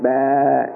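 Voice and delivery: low playful sheep bleat "Bah"; mock sheep bleat. Pastor shows church how sheep answer, mock bleat. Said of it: "Signify by going".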